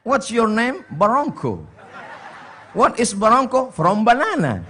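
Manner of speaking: playful broken English through laughter; laughing mock English. Joke about barongko and English, laughing. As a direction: ham up the little dialogue. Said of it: "lancar bahasa Inggris kita".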